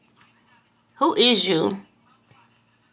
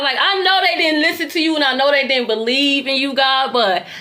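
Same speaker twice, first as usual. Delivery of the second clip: pleading with God; 3 semitones higher than usual. Retold or imitated. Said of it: "I'm pleading with God".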